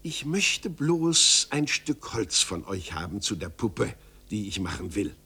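gently. Acted. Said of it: "erwiderte ganz sanft".

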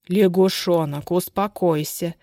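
slow, begging plea; pleading. Acted. Makhovich begging his hysterical wife, slow pleading. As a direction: beg her to calm down. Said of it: "взмолился Махович".

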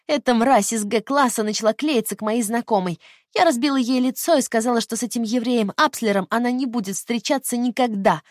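put-on high, loud spiteful teenager; loud bullying teenage girl. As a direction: brag it like a cruel fourteen-year-old. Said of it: "каждый раз меняя голос".

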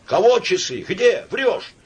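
high, sharp cries; terrible howl. A narrator's reading. Trampled woman and crowd hunting a thief, howling. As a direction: wail out in shock. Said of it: "она взвыла страшным голосом".

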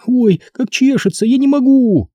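put-on high, whining girl's voice; girl's mock agony. A narrator's reading. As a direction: pretend it's unbearable. Стеф притворно страдает. (притворные страдания девочки)

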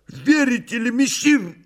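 high, earnest cat voice; heartfelt voice. A narrator's reading. Behemoth assuring messire, high heartfelt voice. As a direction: plead high, as if from the soul. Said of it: "задушевным голосом начал Бегемот".

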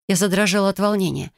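ordinary delivery

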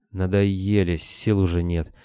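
usual speaking voice

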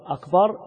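أكبر pronounced "akbaar" with a long second vowel; long final syllable on أكبر; ba of أكبر lengthened. Shown as a demonstration. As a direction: draw out the aa after the b in أكبر. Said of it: "هذه جمع كبر".

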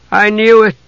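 high, pained cry; anguished outcry. A narrator's reading. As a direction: cry it out in grief, pitched high. Mother hears sons are dead.

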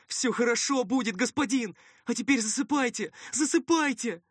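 high-pitched, urgent reassurance; high, insistent coaxing to sleep; soothing helper. Acted. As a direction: reassure the wounded master in a high voice.

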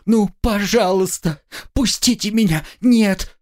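high, panicked begging; desperate pleading. Acted. Student begging her captors, high and panicked. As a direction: plead for your life as they drag you off. Captured student begs, dragged away.

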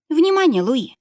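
high loud warning shout; warning call. A narrator's reading. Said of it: "предупредила Лиза".

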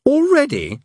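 high, alarmed demon voice; Crowley startled by bad news; panicky Crowley. A narrator's reading. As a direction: blurt it out in dismay.

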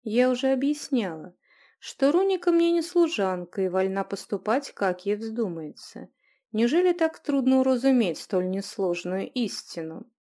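cold restraint. Acted. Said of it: "сдержанном голосе ... звонкие льдинки".

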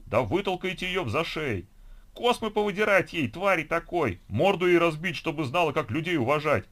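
high, loud tirade; vicious, shouted threats with mounting volume; furious ranting. A narrator's reading. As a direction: whip the crowd up against the intruder. Enraged crowd member urges violence.

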